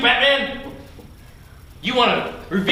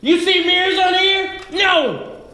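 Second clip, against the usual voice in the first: harsh barking commands; 5 semitones higher than usual. Acted. Drill sergeant yelling at students.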